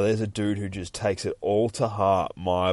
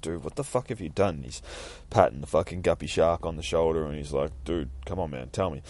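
Nightwing voice; 4 semitones lower, 3 dB quieter than usual. Acted. Nightwing voice, lower and softer.

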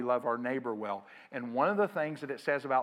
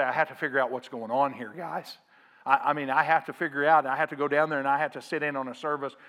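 mock-frantic, louder and hurried toward the end; freaking out; 4 dB louder, faster than usual. Pastor rattled by the rival church down the street, mock freak-out. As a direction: play a pastor starting to panic. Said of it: "He would freak completely out".

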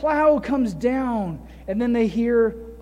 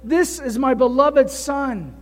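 voice from the cloud; slower than usual. Shown as a demonstration. Preacher voicing God from the cloud, slow and solemn. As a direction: proclaim it slowly like a voice from heaven. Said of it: "What does his voice say?".

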